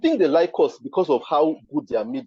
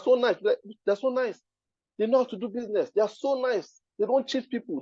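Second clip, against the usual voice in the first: raised, sugary sarcastic praise; mock admiring; 7 semitones higher, 4 dB quieter than usual. Mocking how holidaymakers praise the white hosts, high and sarcastic. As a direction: gush with irony.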